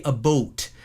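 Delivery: "a boat" for "about"; Newfoundland "about". Shown as a demonstration. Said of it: "you'll hear more of the".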